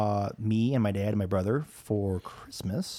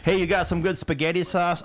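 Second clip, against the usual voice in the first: higher-pitched, put-on asker; mock customer question; 8 semitones higher, 4 dB louder than usual. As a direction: imitate a clueless person asking. Mocks someone asking for sauce.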